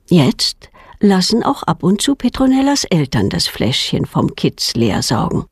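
ordinary delivery, nothing marked

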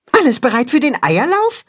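bubbling with excitement before the race; excited. A narrator's reading. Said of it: "fragt Max aufgeregt".

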